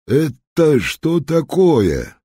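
high, loud, slow stern demand; an officer barking at the thugs from the pavement; commanding shout. A narrator's reading. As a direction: stop them cold with authority. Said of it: "властный голос".

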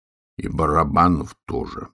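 ordinary delivery

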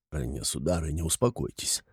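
low, soft placating voice; calm her down quietly; soothing official. A narrator's reading. Official tries to calm frantic woman. (успокаивает тихо, низким голосом)

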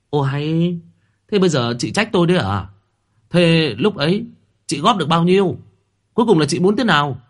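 heated quarrel. A narrator's reading. Sisters quarrelling over money at the grave, heated and fast. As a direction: snap back at your sister-in-law. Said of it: "cự cãi lẫn nhau".

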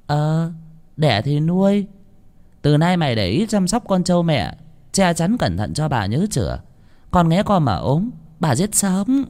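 high, threatening mistress barking orders; bossy mistress. A narrator's reading. Mistress ordering servant Toán to tend the buffalo, high and harsh. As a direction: threaten the servant over the calf.

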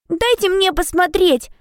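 put-on high, slow eager girl voice; excited little girl. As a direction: beg to see it, bouncing with excitement. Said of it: "взволнованная Мари".

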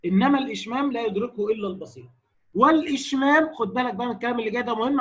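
ordinary talk

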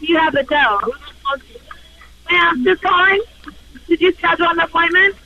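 ordinary delivery

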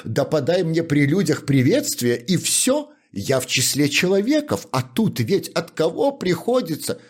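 put-on high, whining voice of a wronged drunkard; tearful-sounding complaint of a humble shoemaker; aggrieved shoemaker. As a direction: plead your grievance high and plaintive. Capiton pleading with butler.

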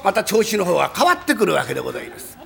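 ordinary delivery

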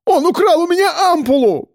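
panicked yell; shriek. A narrator's reading. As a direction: screech it to the guards. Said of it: "взывал".

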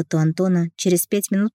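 ordinary delivery, nothing marked

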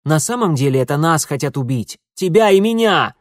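high, loud, urgent blurting; pleading to be believed; desperate outburst. A narrator's reading. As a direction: blurt it out desperately, building to a shout. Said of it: "отчаянно выпалил он".

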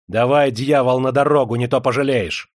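loud, threatening ultimatum; angry demand. Acted. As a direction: demand it with force. Master threatens steward, demanding travel money.

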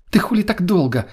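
sharp high angry demand; angry attack. Acted. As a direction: lash out at him. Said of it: "сразу же набросилась на меня Лена".

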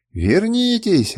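high, slow drawn-out cry; desperate wail. A narrator's reading. Kernus begging his men to return, desperate high wail. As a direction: plead after them, stretching it out. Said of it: "отчаянно вопил Кернус".

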